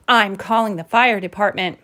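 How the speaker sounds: mild exasperation, ending settled; firm, understated groan; exasperated statement. Acted. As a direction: announce it as a fed-up mama. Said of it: "groaned Mama".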